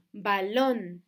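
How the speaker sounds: "Balón" loud, weight on LÓN; stress on final syllable. Shown as a demonstration. Teacher giving an aguda example, "Balón" stressed on LÓN. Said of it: "tiene el acento en la última sílaba".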